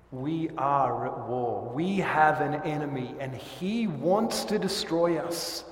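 rally the church against the enemy; firm sermon proclamation; forceful warning. Acted. Preacher warns of enemy.

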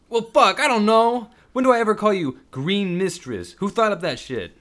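loud, high frustrated cursing. Acted. Devin cursing back at Sam, frustrated. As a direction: swear back defensively. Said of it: "Devin cursed".

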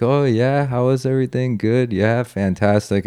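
high, chirpy, overly friendly officer voice; breezy border officer. Retold or imitated. Customs officer chatting up the returning traveler, breezy and high. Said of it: "the guy's like".

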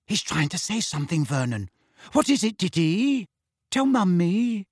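lightly voiced coaxing mother; Aunt Petunia. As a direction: coax the boy to speak.

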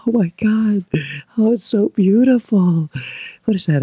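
high, thrilled squealing; tearful squealing yes. Pretend. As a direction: gush like a swept-off bride. Mock proposal, overjoyed reaction.

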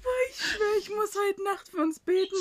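laugh-crying. Real, not acted. Friend jokes through laughter that she must pray for them. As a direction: say it through helpless giggles.

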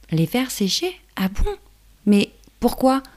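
high puzzled ladybug; curious little ladybug asking. Acted.

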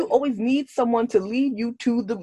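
high-pitched mock telling-off; exasperated scolding. Retold scolding of a character.

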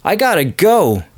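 put-on high, hurried valley-girl panic; flustered girl. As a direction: rush off pretending to be alarmed. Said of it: "She's like".

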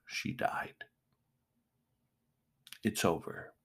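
whispered. Real, not acted. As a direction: let it fade to a whisper. Recalling mother's death.

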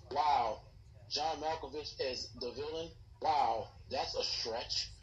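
dry sarcasm. Real, not acted. Sarcasm about Malkovich casting.

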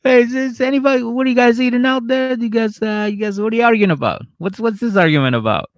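tiny high squeak, nosy and cheerful; squeaky little creature voice. Pretend. The penis peeking out mid-argument, tiny high squeak.

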